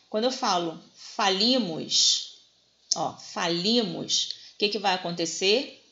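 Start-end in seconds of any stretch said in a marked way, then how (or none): 0.9-2.4 "falimos" slowed, long stressed LI; teacher showing the stressed I in "falimos". Shown as a demonstration. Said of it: "A vogal tônica é o I". 3.2-4.3 "falimos" drawn out slowly on LI; teacher repeating "falimos" with a long I; stress on the I. Shown as a demonstration. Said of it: "A vogal tônica é o I".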